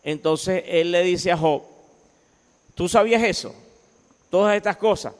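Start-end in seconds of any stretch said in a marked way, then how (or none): 2.7-5.1 higher-pitched, lightly mocking question; ironic questioning. God questioning Job about creation, ironic. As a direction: challenge him with mild irony. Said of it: "le habla a Job con ironía".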